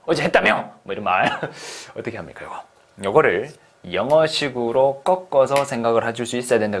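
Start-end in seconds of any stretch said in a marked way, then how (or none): 0.0-0.7 lightly acted nosy friend, a little higher; mock friend's questioning; curious friend. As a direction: quiz them casually like a buddy. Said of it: "친구가 물어볼 수 있겠죠?".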